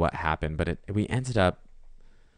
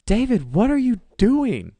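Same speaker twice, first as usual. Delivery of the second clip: much higher, louder, slow calling out; mock yell; 9 dB louder than usual. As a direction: call his name across the street. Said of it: "He's like".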